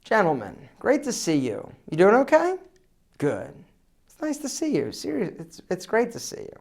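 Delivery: soft, weak, unprojected greeting; small voice that doesn't carry; without projection. Shown as a demonstration. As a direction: mumble it quietly as if unsure. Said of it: "Projection? No check".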